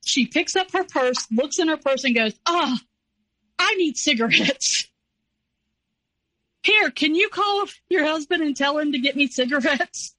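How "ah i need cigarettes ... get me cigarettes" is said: imitating mother. Mother imitated asking for cigarettes.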